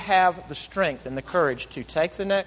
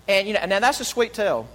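stilted; 2 semitones higher, 3 dB louder than usual. Real, not acted. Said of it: "That sounded kinda stilted".

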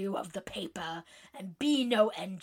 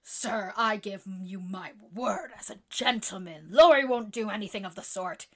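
sincere pleading, softening at the end; in earnest; 3 semitones higher than usual. Acted. Jo earnestly vouching for Laurie to the club. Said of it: "very much in earnest".

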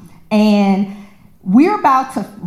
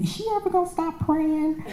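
inner exasperation; 8 semitones higher, 9 dB quieter, faster than usual. Retold or imitated. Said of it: "I'm thinking".

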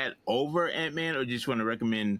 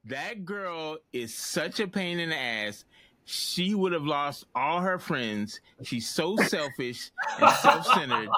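slow, scornful rant; disgusted and fed up; jaded; 3 semitones higher, 3 dB louder, slower than usual. Real, not acted. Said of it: "Tell me how you really feel".

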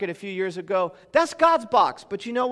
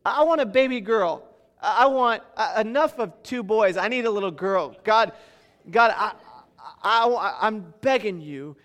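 eager begging; 4 semitones higher, 4 dB louder than usual. Retold or imitated. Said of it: "I'm like".

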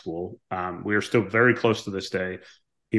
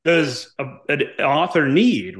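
cocky pilot; 3 semitones higher, slower than usual. Retold or imitated. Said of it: "a cocky, arrogant pilot".

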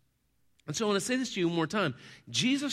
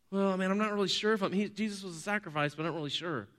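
hesitant mumble tailing softer; acted uncertainty; 2 semitones higher, 5 dB quieter, faster than usual. Doubting believer unsure about the sacrifice, hesitant. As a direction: waver quickly, losing volume as you go.

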